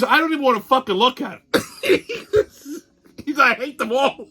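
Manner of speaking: lightly voiced fed-up husband; distraught buddy.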